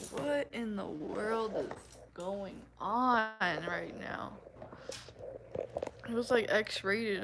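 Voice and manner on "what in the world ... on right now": slow stunned question; mock bewildered. Hearing moaning played in a restaurant, slow bewildered. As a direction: drag it out, baffled. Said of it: "I was like".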